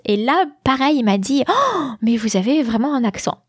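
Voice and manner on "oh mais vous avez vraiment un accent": retold gasp of mild astonishment; mock surprise. Café waiter to a customer he took for foreign, mildly astonished. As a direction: imitate someone taken aback, pitch jumping on the "oh".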